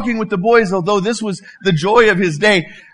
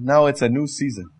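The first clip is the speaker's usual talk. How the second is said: lower, softer voice of God, unhurried pauses; quiet, lower God voice with long pauses; God's voice; 6 semitones lower, 4 dB quieter than usual. Acted. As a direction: speak as a gentle God advising. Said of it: "He said".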